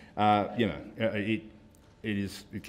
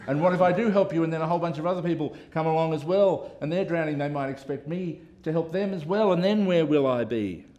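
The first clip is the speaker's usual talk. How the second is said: cartoon character voice; 6 semitones higher, 3 dB louder than usual. Reading cartoon bystander's excuses.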